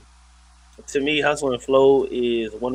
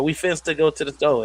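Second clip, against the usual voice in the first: AAVE with "store" as "sto"; slangy example, final r dropped; hood slang; 3 semitones higher than usual. Retold or imitated. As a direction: imitate a mom's Ebonics lesson. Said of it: "trying to teach her daughter".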